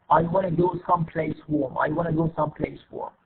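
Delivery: wanna as one linked word in the sentence; reduced form. Shown as a demonstration. Teacher models connected speech, wanna in a sentence. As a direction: say wanna with no separate to. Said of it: "we have an idea about that".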